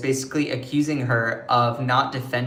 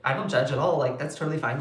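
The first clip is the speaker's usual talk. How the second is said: softer, gentle reassurance; gently, quietly reassuring; 4 dB quieter, faster than usual. Retold or imitated. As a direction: put a nervous friend at ease. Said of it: "I said".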